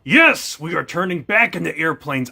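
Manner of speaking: sudden joyful high yell; excited shout. Real, not acted. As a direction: cheer it out loud. New flying level starts.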